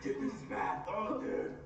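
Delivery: struggling to breathe; gasping between words; mouth burning from spicy food. Real, not acted. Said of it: "I can't breathe".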